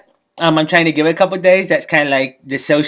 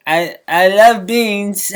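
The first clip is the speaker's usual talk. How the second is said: stammering awkward suitor; 3 semitones higher, much slower than usual. Retold or imitated. Nervously lying to waiter.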